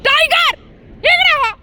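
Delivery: high, commanding call to a dog; sharp calling. Real, not acted. Owner calling dog away from worker, sharp high call. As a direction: summon the dog firmly in a high voice.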